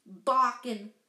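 loud, scornful bark of a word; barking scoff. A narrator's reading. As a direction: spit it out loudly with scorn. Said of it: "said Uncle Vernon".

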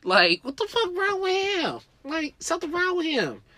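high, incredulous voice; baffled girl. Retold or imitated. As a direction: play her utterly confused by him. Girl's baffled reaction.

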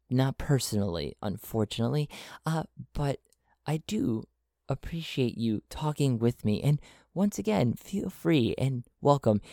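quiet, understated regretful voice; solemn apology. Acted. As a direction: say sorry gently, with real regret. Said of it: "Jose solemnly shakes his head and says".

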